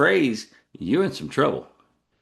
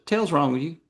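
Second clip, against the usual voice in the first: higher-pitched, run-together Texas reproach; disapproving Texan look; 7 semitones higher than usual. Retold or imitated. Texan eyeing a woman knocking Texas, mock reproach. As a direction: voice a silent scolding look. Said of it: "I gave her that look".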